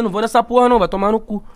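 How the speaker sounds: telling it where to go, annoyed; mock-angry outburst. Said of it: "Aí eu fiquei puto".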